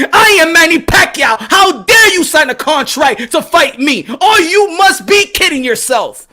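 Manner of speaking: indignant champion's boast, lightly voiced; Manny Pacquiao's indignation. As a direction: punch out each put-down at a challenger. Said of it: "I'm speaking for Manny Pacquiao right now".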